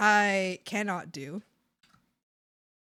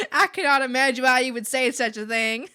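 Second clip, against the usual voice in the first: louder, hammed-up Southern belle accent with laughter; 3 semitones higher, 8 dB louder than usual. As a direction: push the Southern belle over the top, laughing. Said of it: "Southern Belle".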